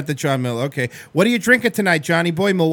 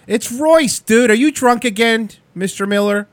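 higher, louder goofy host voice; playful mock greeting; put-on goofy voice; 6 semitones higher, 3 dB louder, slower than usual.

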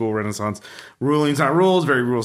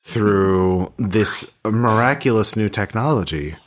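slow, solemn divine voice; a dreaming god speaks, slowly; 3 semitones lower, slower than usual. Acted.

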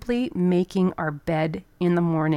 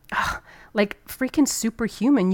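elated; 4 semitones higher than usual. Pretend. Feeling after pushing past limits.

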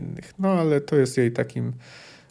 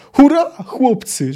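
high, loud, drawn-out rallying cry; battle roar; 10 semitones higher, 6 dB louder, slower than usual. A narrator's reading. Count rallies his men in battle, roaring. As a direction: roar out to the troops, slow and high. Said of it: "że ryknął".

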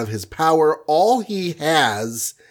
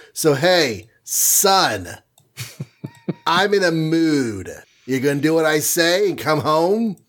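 wrath speak. Retold or imitated. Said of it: "some really wrath speak going on here".

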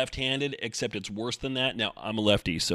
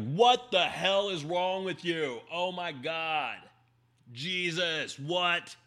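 higher, exasperated half-yell at a bad driver; a hammed-up rant at the windshield, much higher; mock yell at the car; 7 semitones higher, much slower than usual. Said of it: "yell at my car".

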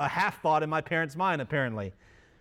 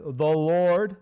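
proclaimed; 4 dB louder than usual. Acted. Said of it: "all caps".

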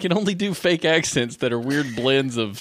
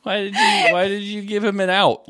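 high, louder comic dismay; exasperated retold protest; 8 semitones higher, 5 dB louder than usual. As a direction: whine at the partner's blunder, hammed up. Retold exasperated scolding of Stephanie.

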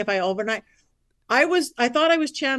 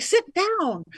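retold yell; 8 semitones higher than usual. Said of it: "he's yelling at me".

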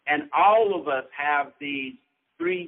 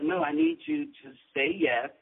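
firm teacher; 11 semitones higher than usual. Retold or imitated. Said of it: "She was like".

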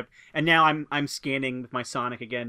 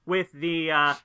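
raised, high-pitched voice addressing unseen strangers; calling up; 5 semitones higher than usual. Acted. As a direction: call up an official offer of help, haltingly. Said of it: "I shout up, like".

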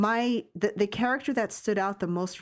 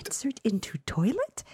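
lightly imitated comedian's aside, pitched up; Jim Gaffigan impression; 4 semitones higher than usual. Host echoing a comedian's bit, light aside voice. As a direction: mimic a stand-up's questioning side voice. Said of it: "When is he gonna whisper at himself like he does?".

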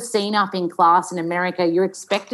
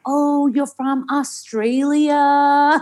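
high, drawn-out American coo; gushing American fan; 7 semitones higher, much slower than usual. Retold or imitated. Actor mimicking Americans meeting her, high slow gushing. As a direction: imitate Americans thrilled by an Aussie. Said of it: "they're like".

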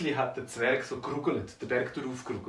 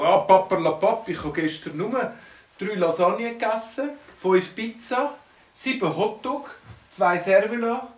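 boastful dwarf; 6 semitones higher, 6 dB louder than usual. Acted. Dwarf boasts of huge meals.

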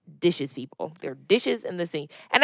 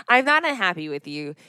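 same words again, easing off through a laugh; laughing repeat. Real, not acted. Joy repeating her denial to her husband, laughing.

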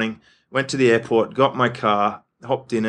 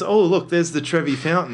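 mock tourist delight; 5 semitones higher than usual. Tourist driving through Rome.

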